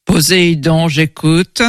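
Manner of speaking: cavernous god on the line. Acted. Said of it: "une voix caverneuse".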